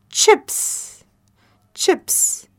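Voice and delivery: whispered. Shown as a demonstration. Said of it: "C H, ch".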